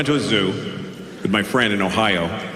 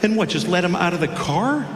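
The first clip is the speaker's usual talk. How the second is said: mocking reply; 10 semitones higher than usual. Mocking friend's lion idea.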